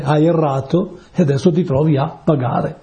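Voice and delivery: usual speaking voice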